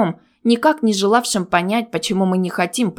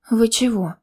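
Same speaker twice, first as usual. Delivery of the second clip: surprised; 4 semitones higher than usual. Acted. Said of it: "удивилась я".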